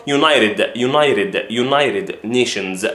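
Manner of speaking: "United" as "you-NAI-rid", with a flapped T; pure American pronunciation. Shown as a demonstration. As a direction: soften the T in "United" American-style. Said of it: "تقولها باللهجة الأمريكية الخالصة". (كلمة "United" باللهجة الأمريكية الخالصة بتاء مخففة)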